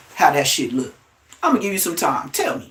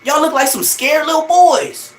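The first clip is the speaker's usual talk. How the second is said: much higher shout of swing, do something; yelling at the TV; 11 semitones higher than usual. Retold or imitated. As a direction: yell at the fighters on the screen. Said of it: "I was like".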